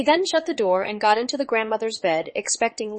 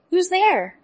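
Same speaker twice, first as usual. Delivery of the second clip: put-on much higher, louder old lady; frail granny calling out; grandmother voice; 9 semitones higher, 4 dB louder than usual. A narrator's reading. Grandmother asks from bed.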